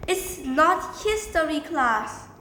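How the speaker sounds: slow correction rising high and loud; acted correction. Student corrects the teacher on the subject, acted correction. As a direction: put the teacher right, pitch climbing.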